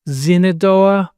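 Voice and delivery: slow Zin-a-doa, starting on Z; Iroquois form of Shenandoah. Shown as a demonstration. Explaining the Iroquois word, slow Zinadoa. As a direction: sound out Zinadoa slowly. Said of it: "it's an Iroquois word".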